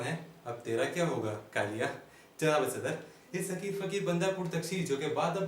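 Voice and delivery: theatrical comic recitation with dramatic pauses; comic stage monologue. Acted. Comedian addressing ladies and gentlemen about his life, mock-grand monologue. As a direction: declaim it like a mock-grand orator.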